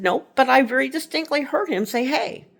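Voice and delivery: high, earnest mock teen protest; a daughter swearing she heard it; insistent daughter. Daughter insisting to mom she heard the greeting.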